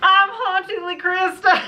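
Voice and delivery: name said through laughter; laughing. Real, not acted. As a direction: introduce yourself while giggling.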